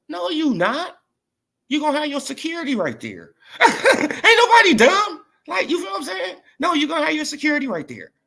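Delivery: high, loud shout broken by laughter; laughing shout. Real, not acted. Laughing, shouting down Tank's threat.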